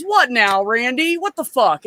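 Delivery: mock exasperation. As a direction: imitate a fed-up guy answering a yeller. John answers the yelling, exasperated.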